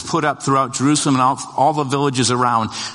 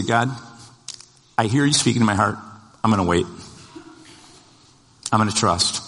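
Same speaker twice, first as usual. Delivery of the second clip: quiet prayer; 3 semitones lower than usual. Shown as a demonstration. The preacher leads the congregation in a quiet, trusting prayer. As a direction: pray it softly, letting each phrase settle. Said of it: "I'm just gonna ask somebody to say".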